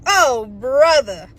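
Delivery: long, drawn-out weary dismay; exasperated. Real, not acted. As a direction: drag it out in disbelief. Exasperated at what was told.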